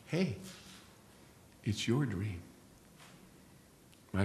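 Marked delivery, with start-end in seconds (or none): 0.1-2.4 gentle reminder. Acted. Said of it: "The angel gently reminds you".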